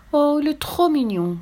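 put-on high, tender coo over a baby; touched mother cooing. A narrator's reading. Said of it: "fit la maman attendrie".

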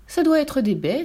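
high little bird voice, piping. A narrator's reading. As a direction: chirp it like a small bird. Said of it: "siffla Dodu la plume". (petite voix d'oiseau aiguë et flûtée)

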